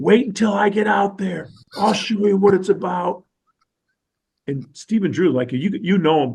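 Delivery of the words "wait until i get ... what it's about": put-on heated yell, high-pitched. Retelling a player yelling during infield practice: imitating a player screaming. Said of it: "he's screaming".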